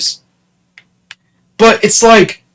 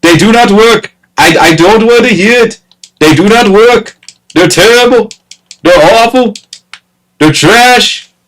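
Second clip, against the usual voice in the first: irritated rant; 5 semitones higher than usual. Real, not acted. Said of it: "that honestly irritates me".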